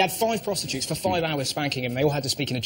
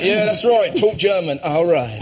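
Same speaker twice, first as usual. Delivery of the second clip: mock delighted; 3 semitones higher, 4 dB louder, slower than usual. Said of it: "He was like".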